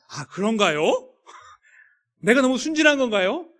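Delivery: high, loud mock-innocent question; mock naive. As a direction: play surprised innocence, pitching the questions up. Acted reply feigning naivety in retelling.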